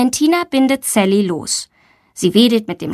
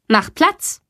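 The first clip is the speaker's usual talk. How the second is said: stern command; 7 semitones higher than usual. Acted. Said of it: "Sie blickt streng zu Sally und ruft".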